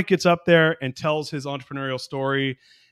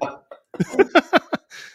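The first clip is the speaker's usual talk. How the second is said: laughter; 5 dB louder than usual. Real, not acted. Reacting to the accent intro.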